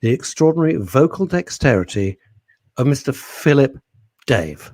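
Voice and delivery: grand stage introduction, paused for effect; mock announcer. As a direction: introduce him like a star turn. Mock introduction of the poem reader.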